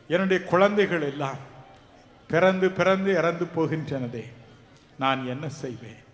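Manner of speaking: preacher quoting a mother's sorrow; voiced lament. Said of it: "என்று புலம்பி அழும்".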